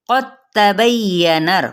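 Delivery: क़द तबय्यना said slowly, with the द merged into the ता; demonstrated reading. Shown as a demonstration. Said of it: "हमने पढ़ना है कैसे". (क़द तबय्यना धीरे से, दाल को ता से मिलाकर)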